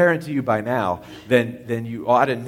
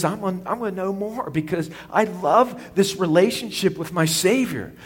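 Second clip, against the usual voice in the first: higher, eager voicing of a believer's hope; hopeful inner voice; 5 semitones higher than usual. Preacher voicing a believer's hope, eager. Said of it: "your great hope is".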